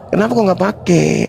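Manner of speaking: shouted jeer with a laugh. Real, not acted. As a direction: laugh and yell the challenge.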